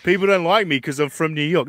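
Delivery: a touch of boastful New York whine, imitated; mock proud New Yorker. Co-host mocking New Yorkers who are proud of it, mock proud New Yorker. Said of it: "With New Yorkers, you're so proud".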